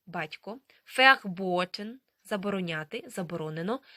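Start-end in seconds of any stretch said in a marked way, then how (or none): 1.0-1.9 "verboten" loud, starting with f, long o; German V as F. Shown as a demonstration. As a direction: model "verboten" as fer-BOH-ten, rising. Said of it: "вона читатиметься як звук Ф".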